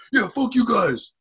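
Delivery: high, slow mock jeer; jeering insult. Troublemaker taunting the departing customers, jeering. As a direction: imitate a drawn-out parting taunt.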